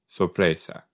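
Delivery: Spanish word with a slight Italian accent. Real, not acted. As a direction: give "sorpresa" a light Italian colouring. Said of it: "just said it in an Italian accent".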